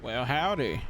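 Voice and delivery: put-on southern accent. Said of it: "talking in my southern accent".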